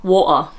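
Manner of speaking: "Water" the Cockney way; Cockney pronunciation. Shown as a demonstration. Host showing how Cockneys say it, "Water" in Cockney. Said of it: "is how they say it".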